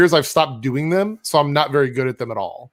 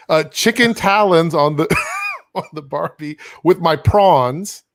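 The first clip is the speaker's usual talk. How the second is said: put-on Australian accent; 3 dB louder, slower than usual. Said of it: "I'm down with Australia".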